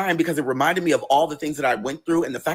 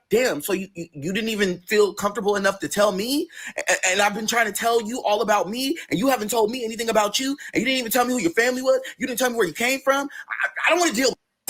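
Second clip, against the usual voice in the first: put-on imagined hurt boyfriend; 7 semitones higher than usual.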